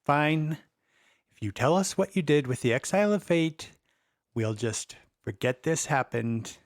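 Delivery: through gritted teeth; grudging, teeth clenched. Acted. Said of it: "Gritted teeth".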